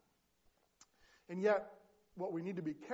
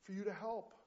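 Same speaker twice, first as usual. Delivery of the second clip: higher-pitched, lightly acted complaint to God; mild crying out; 4 semitones higher, 3 dB quieter than usual. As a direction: protest mildly, as the man in the story. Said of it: "he cries to the Lord".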